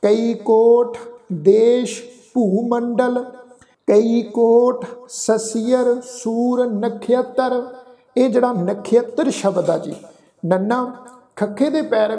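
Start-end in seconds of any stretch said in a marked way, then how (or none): 0.0-7.6 slow, measured verse recitation; deliberate chant-like reading with pauses; scripture recitation. Shown as a demonstration. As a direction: recite line by line with held final syllables.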